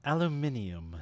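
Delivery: ALUMINIUM said British, as al-yu-MIN-ee-um; mock-British "aluminium", every syllable sounded; British pronunciation. Shown as a demonstration. Co-host offering another British example, British-style ALUMINIUM.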